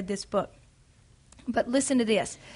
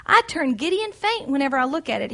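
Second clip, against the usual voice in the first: higher, fearful pleading voice; reading a frightened heroine's plea, higher and fearful; 5 semitones higher than usual. Acted. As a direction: plead like a scared girl facing a cliff.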